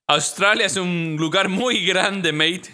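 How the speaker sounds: put-on slow, dry Australian accent; patient Australian driver setting him straight. Weary van driver answers in an Australian accent. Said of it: "el mejor acento que yo puedo hacer de au-, australiano".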